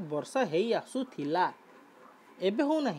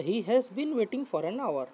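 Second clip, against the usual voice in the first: slow model reading; 2 semitones higher, much slower than usual. Shown as a demonstration. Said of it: "teacher rereads example".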